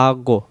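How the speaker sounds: আগো with rounded lips. Shown as a demonstration. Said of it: "মুখটা এমন হবে গোল হবে".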